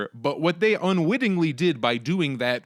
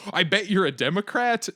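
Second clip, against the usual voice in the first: retold heckle, pitched up; lightly re-enacted taunt in a higher voice; mild mock yell; 6 semitones higher than usual. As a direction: throw it out like a half-hearted yell. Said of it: "And then I got to yell".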